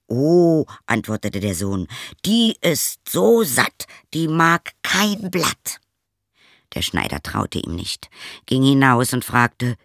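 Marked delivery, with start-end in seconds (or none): 0.1-5.8 son answering. Acted.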